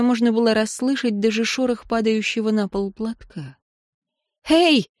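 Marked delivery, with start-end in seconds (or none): 4.5-4.9 high, anxious call; on verge of tears. A narrator's reading. Eteri calls into the silence, near tears. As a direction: call out, close to breaking down. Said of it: "вот-вот позорно разрыдается".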